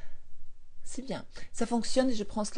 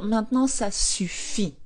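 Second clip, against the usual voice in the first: ça suffit drawn out slowly and firmly; slower than usual. Shown as a demonstration. Coach showing listeners how to tell their mind, slow and firm. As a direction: put your foot down, slowly. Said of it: "Vous pouvez dire".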